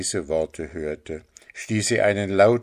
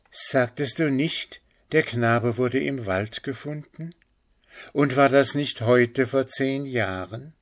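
higher, searching woman's questions; urgently questioning mother; 5 semitones higher than usual. Acted. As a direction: press gently for confirmation. (drängend fragende Mutter)

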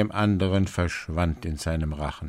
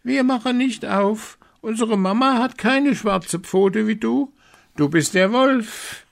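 put-on high, loud kids' voice, much higher; goat kids calling; 6 dB louder than usual. A narrator's reading. Little goats refusing the wolf, high and loud. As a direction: shout it like defiant little kids. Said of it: "Das sahen die Kinder und riefen".

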